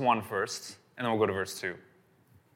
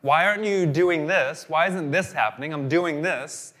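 frustrated complaint; 4 semitones higher, 5 dB louder than usual. Retold or imitated. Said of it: "we say".

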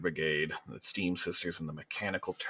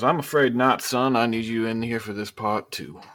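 governor refusing; 3 semitones higher, 4 dB louder than usual. Acted. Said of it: "he goes".

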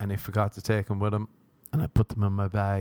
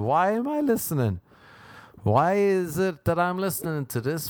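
higher-pitched, exaggerated puzzled questioning; mock bewilderment; 4 semitones higher than usual. Host voicing a listener baffled by his gibbering, mock bewildered. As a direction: wail the question in mock disbelief.

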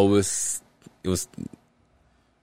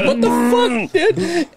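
high, louder incredulous outburst; mock shock; 3 dB louder, much slower than usual. Driver reacting to his buddy's crude call, mock shocked. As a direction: act out appalled disbelief, pitched way up.

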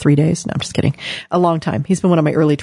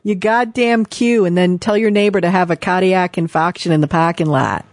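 hammy, badly faked Boston accent. Shown as a demonstration. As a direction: put on a clumsy Boston accent. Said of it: "was my very bad Boston accent".

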